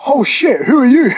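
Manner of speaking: high, excited double-take; imitated astonishment. Player seeing the teller's Instagram, high mock astonishment. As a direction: act out someone suddenly impressed, pitched right up.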